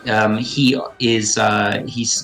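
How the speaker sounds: game master setting the battle scene over music; dramatic scene narration. Acted. Game master describing the creature's fall to the players, dramatic narration. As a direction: paint the fight for the table, steady and vivid.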